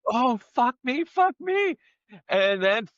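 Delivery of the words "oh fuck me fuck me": high, rising pained cries; imitating her stung yelps; pained swearing. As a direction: yelp it like the sting keeps coming.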